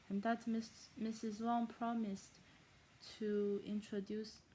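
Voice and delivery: botched fake German accent. Shown as a demonstration. Reader losing hold of the accent mid-chapter, botched fake German accent. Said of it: "that just sounded really, like, stereotypically Asian".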